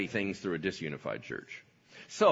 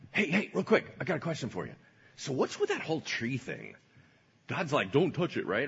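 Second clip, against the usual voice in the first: sly snake; 2 semitones higher than usual. Acted. Snake tempting Eve.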